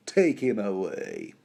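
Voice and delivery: slow, drawn-out command; lightly voiced villain. Villain ordering guards to seize Davos, slow disdain. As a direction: stretch the order out with mild disdain. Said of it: "you would expect this villain".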